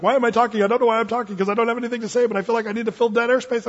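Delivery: fast run-on babble; nervous rambling. Acted. Someone with nothing to say fills dead air, rambling quickly. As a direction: rattle on to fill the silence. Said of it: "you just start talking".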